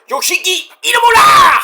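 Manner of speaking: high shouted introduction; ring announcer call. Acted. Announcer introducing the wrestler, high shout. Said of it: "ring announcer call".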